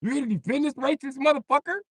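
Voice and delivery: very high, loud nasal-free whiny white voice; squeaky defiant white dude; high, indignant white guy squawk; mock white guy. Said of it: "you be like".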